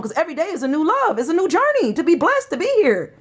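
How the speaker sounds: impassioned plea, pitch swinging up and down; emotional exhortation. Real, not acted. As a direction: urge them with real, rising emotion. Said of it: "I'm sorry I'm emotional".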